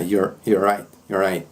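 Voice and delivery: "you're right" with half the sounds gone; heavily reduced form. Shown as a demonstration. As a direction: clip "you're right" down to "y'righ". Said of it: "a metade dos fonemas somem".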